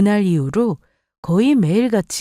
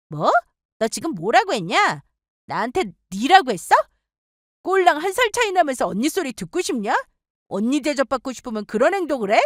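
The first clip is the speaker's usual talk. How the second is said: higher, indignant comeback; angry retort; 5 semitones higher than usual. Acted. Older sister fighting back over respect, indignant. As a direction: throw the insult back at her.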